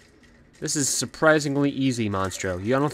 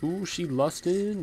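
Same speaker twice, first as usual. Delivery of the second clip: 1 mock sultry tease; 6 semitones higher, 4 dB quieter, slower than usual. Shown as a demonstration. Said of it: "That's not a thing".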